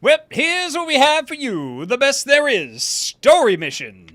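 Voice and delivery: put-on high, loud old-timey barker, stretching key words; booming showman's singsong spiel; carnival barker. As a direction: pitch it to the crowd like a sideshow barker. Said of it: "can we get, like, a carnival barker".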